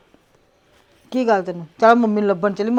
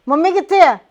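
1 anxious question; 6 semitones higher, 5 dB louder than usual. Acted. Anxious asking where mother went.

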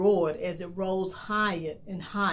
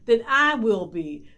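demanding wife; 5 semitones higher, 8 dB louder than usual. A narrator's reading. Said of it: "the wife said".

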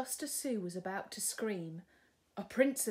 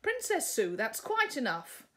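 higher, louder scolding; huffy prince; 4 semitones higher, 5 dB louder than usual. Acted. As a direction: tell her off. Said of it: "in a huff".

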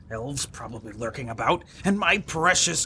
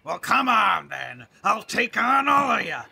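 mock challenge; 7 semitones higher than usual. Dwarf challenging the crew to fight.

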